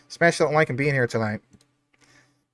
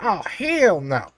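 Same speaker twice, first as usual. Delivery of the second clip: drawn-out refusal; 3 semitones higher, much slower than usual. Retold or imitated. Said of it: "I'm like".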